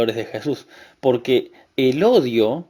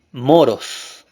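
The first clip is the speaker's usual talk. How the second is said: normal talking voice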